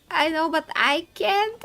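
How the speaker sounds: high, loud mock helplessness; re-enacted exasperated excuse; retold pleading protest. Retells her protest to the judges.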